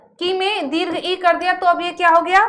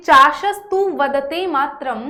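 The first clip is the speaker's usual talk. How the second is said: shloka recitation. Shown as a demonstration. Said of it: "ये एक श्लोक है".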